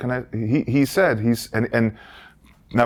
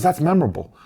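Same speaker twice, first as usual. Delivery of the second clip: raised, badly faked comedian's voice; half-managed impression, pitched up; Colin impression; 6 semitones higher than usual. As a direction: attempt the veteran comic's voice. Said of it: "I can't do it".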